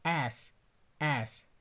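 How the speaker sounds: एस repeated with the front 'a' of cat; corrected pronunciation. Shown as a demonstration. Teacher repeating for learners, corrected pronunciation. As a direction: model एस as 'ass', not 'aas'. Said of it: "मगर ये आस नहीं है".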